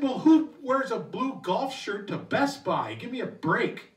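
slow, sarcastic comeback; indignant retort. Retold or imitated. Narrator snapping back at the customer, mild sarcasm. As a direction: put him in his place. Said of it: "I said".

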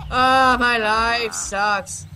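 slow, drawn-out moan of self-pity; mock depressed. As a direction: groan it slowly as the depressed creature. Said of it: "He looks so depressed".

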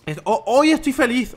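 lightly put-on cheerful voice; mock happy voice. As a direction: play up being happy in a put-on voice.

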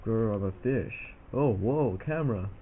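slow, lightly voiced fish with a mock growl; silly fish voice. Kid voices the fish meeting his camera, slow mock growl. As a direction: play a goofy fish spotting the camera. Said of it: "The fish are like".

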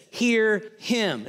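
high, loud divine command; forceful order from heaven; voice from the cloud. Acted. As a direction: command it with weighty emphasis. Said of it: "A voice came out of the cloud".

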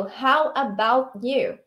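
very slow, stretched question; slow model reading. Shown as a demonstration. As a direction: model it for the class. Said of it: "Usa aí o".

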